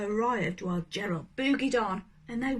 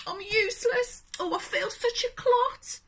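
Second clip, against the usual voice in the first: higher, self-pitying moan; a hint of a miserable giraffe; dejected Gerald; 9 semitones higher than usual. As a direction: Gerald sadly calling himself useless. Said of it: "he thought".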